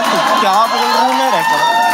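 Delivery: loud, slow mock Hyderabadi accent; answering in put-on Hyderabadi accent. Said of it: "मैं भी ऐसा हो गया".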